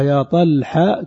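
"يا طلحة" drawn out, with ح left open as "ḥa"; fatha kept on ح. Shown as a demonstration. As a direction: say "طلحة" slowly, keeping the "a" after ح. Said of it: "يعني الحاء تبقى مفتوحة". (إبقاء الحاء مفتوحة في "طلحة" مع التمهّل)

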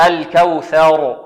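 "الكوثر" slow, light كو, heavy ر at the stop; heavy final ra. Shown as a demonstration. Teacher models for class to repeat, slow heavy final ra. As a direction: draw out "الكوثر", ending on a thick R. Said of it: "والراء هنا مفخمة".

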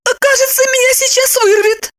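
high pitiful voice, choking on the words; gagging. A narrator's reading. Wife tells husband she is about to throw up, gagging high. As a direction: gag and plead, pitched high. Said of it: "давясь, сообщила она".

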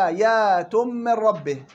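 slow Quranic chant; slow Quran recitation. Shown as a demonstration. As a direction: recite آيات للسائلين slowly and measured. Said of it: "وقوله تعالى".

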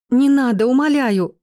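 high, loud pleading shriek; frightened squeal. A narrator's reading. Pregnant sister begs him not to beat her brother, terrified squeal. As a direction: beg him to stop in terror. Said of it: "дрожа от страха, взвизгнула Дана".

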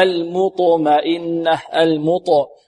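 slow المطمئنة, light م then thick ط; thin mim, heavy ta. Shown as a demonstration. Teacher demonstrating contrast, thin م and heavy ط in المطمئنة. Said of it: "نرقق الميم المطمئنة ونفخم الطاء".

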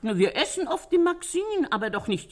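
lachend nachgeahmt, mit hoher Stimme. Retold or imitated. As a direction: lachend zitieren, was die Freundin sagte. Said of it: "hat sie gelacht". (lachend, wie die Freundin beim Erzählen)

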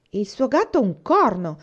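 slow, loud indignant outburst, stress on gatto; indignant exclamation. A narrator's reading. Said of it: "esclamò Mary indignata". (esclamazione indignata, lenta e più forte, con accento su gatto)

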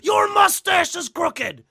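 high, loud, raspy-edged promo shouting; Macho Man impression. Imitating Macho Man's promo for a friend, high and loud. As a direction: yell it like a wild cocaine-fueled promo. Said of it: "that's Macho Man".

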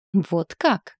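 menacing. A narrator's reading. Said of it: "прохрипела Сатиане угрожающе".

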